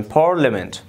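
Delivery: "Parliament" as "PAR-le-ment", the I unsounded; silent I. Shown as a demonstration. English teacher showing an exception, "Parliament" with silent I. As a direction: say "Parliament" in three syllables, skipping the I. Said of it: "ما حرف آی را تلفظ نمونیم".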